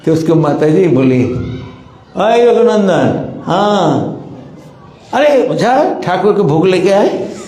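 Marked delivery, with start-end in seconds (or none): 2.2-7.3 put-on high, slow call to a child across the house; mother calling out. Mother calls Raghunandan to bring the offering, high drawn-out call. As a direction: stretch the name out like a mother summoning her boy.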